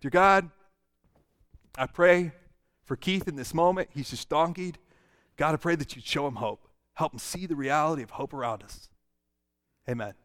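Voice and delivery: gentle prayer. Pretend.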